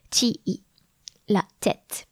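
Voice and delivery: "La tête" whispered softly. Shown as a demonstration. Scene: teacher repeating the word in a whisper. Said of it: "The head is la".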